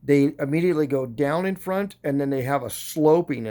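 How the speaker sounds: whistling on the s sounds; speech whistling through new temporary teeth. Real, not acted. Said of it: "that's why I'm kinda whistling when I talk".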